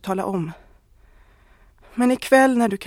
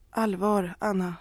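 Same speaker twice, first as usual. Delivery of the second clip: mild tone. Acted. Husband gently asking his wife what she wants, mild. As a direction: say it kindly, without reproach. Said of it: "Hans tonfall är milt".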